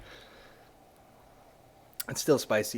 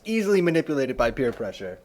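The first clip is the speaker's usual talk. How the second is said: dry, low note-taking voice; 4 semitones lower than usual. Pretend. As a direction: read it out like a memo. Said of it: "Takes note for future reference".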